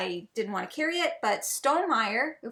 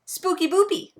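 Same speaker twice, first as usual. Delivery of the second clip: playful squeal; 7 semitones higher, 5 dB louder than usual. Pretend. Playful silly game name.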